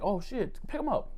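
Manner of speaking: high-pitched mock alarm; alarmed Marines. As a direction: imitate comrades suddenly alarmed, voice rising.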